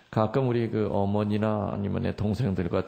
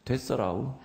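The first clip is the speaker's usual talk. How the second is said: light Jeolla lilt; demonstrated Jeolla accent; Jeolla dialect; 3 semitones higher than usual. Shown as a demonstration. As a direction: say it like a Jeolla local. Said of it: "전라도 말로 뭐라 그래요?".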